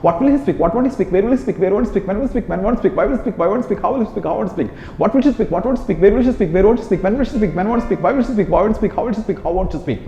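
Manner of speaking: rapid drill. Shown as a demonstration. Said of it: "నేను ఒకసారి మళ్ళీ స్పీక్ మీద చెప్తాను".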